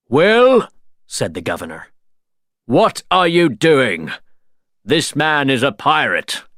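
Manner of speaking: put-on high, loud, alarmed older man; shocked governor. A narrator's reading. Governor confronting Will over protecting Jack, shocked. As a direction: demand an answer in disbelief.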